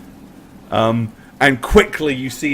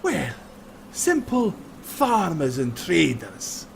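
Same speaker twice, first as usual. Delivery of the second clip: mock humble robber; 4 semitones higher than usual. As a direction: feign humility, then demand it all. Highlander feigns humility, then demands belongings.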